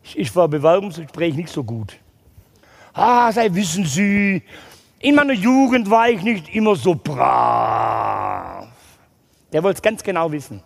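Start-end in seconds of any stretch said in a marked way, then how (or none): 2.9-8.7 slow, hesitant admission; sheepish confession. Retold or imitated. Tattooed applicant admits his youth to the boss, sheepish and slow. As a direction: squirm through the answer. Embarrassed interview answer.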